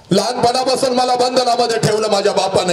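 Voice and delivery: rising complaint. Acted. Daughter's complaint, repeated.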